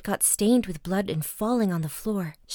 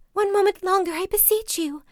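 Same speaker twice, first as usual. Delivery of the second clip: much higher, louder desperate plea; begging wife; 12 semitones higher, 4 dB louder than usual. A narrator's reading. Wife begging her husband for one more moment, high and loud. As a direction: beg in a high cry.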